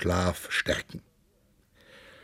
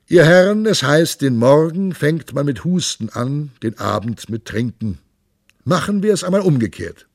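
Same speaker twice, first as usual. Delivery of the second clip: rousing, raised voice of a merry monk; hearty monk; 5 semitones higher, 4 dB louder than usual. Acted. The monk rouses the lords at dawn, loud and hearty. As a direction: call the lords to drink at dawn, jovial and loud.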